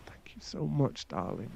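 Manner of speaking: relieved whisper; grateful whisper. Acted. Grateful after forgiveness.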